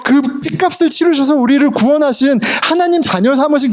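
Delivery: high, ringing pulpit proclamation; re-enacted high-pitched preaching; preaching the gospel. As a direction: proclaim it as in your own sermon. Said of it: "매 설교마다 복음을 얘기하잖아요".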